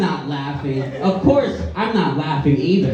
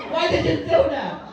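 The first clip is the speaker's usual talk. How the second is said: laughing protest; 9 semitones higher, 4 dB quieter than usual. Pretend. Imagined skydive gone wrong.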